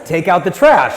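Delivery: loud, sharp order; retold shout. Wife telling him to take out the trash, loud. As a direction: bark it out like a fed-up wife. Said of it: "and then she says".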